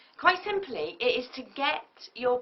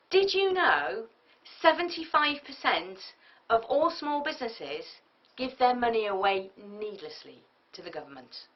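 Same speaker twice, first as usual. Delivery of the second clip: dynamic hook. Shown as a demonstration. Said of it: "make them go, "Whoa".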